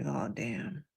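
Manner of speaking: growing realization, damn after damn rising in pitch; building dismay. Retold or imitated. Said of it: "I was like".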